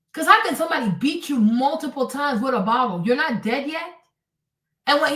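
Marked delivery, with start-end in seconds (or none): none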